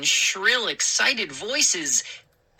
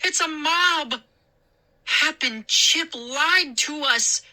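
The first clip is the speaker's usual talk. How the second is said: alarmed cry; 10 semitones higher than usual. A narrator's reading. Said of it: "I cried".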